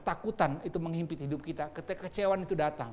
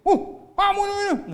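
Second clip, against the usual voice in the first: very high, loud mock exasperation; hammed-up squeal of annoyance; scolding parent; 7 dB louder, much slower than usual. Parent snapping at a crying child, mock scolding. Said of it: "Anaknya nangis".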